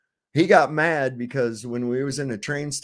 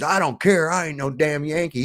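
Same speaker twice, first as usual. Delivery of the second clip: indignant; 3 semitones higher than usual. Retold or imitated. Friend refusing to be called a Yankee, hammed-up indignation. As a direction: bristle at being called a Yankee. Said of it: "He was gonna go yell at her".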